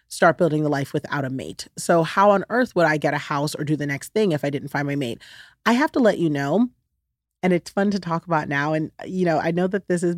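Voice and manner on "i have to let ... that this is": said with a smile; smiling voice. Real, not acted. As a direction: let a smile come through. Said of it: "maybe you can hear me smiling".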